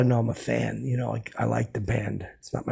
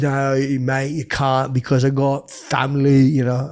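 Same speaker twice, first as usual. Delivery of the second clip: Impression of a rock singer; 5 dB louder, slower than usual. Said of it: "that's my Jagger impression".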